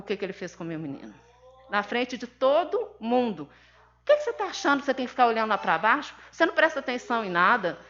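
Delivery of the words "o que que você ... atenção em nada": scolding. Retold or imitated. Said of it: "Ele xingou meu".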